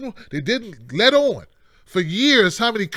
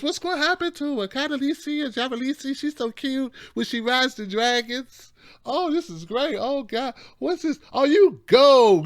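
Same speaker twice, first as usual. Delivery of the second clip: mock TV watcher; 4 semitones higher than usual. Host mocks viewers glued to Game of Thrones, breathy higher mock gushing. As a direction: play a starstruck viewer who ignores the news.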